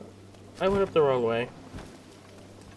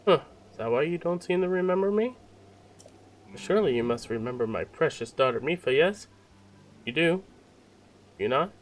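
booming Zora king; 4 semitones higher than usual. Acted. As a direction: play a grand, cheerful monarch. King dialogue continues.

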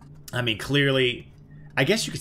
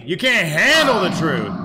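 movie quote voice; 6 semitones higher, 7 dB louder than usual. Pretend. Famous movie line while fighting.

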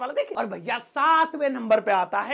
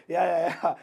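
absent-minded agreeing; 5 semitones lower, slower than usual. Shown as a demonstration. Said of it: "क्या होगा?".

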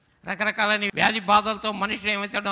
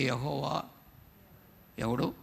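scornful question; 7 semitones lower, 6 dB quieter, slower than usual. Retold or imitated. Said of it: "వారు ఏం చేస్తున్నారంటే".

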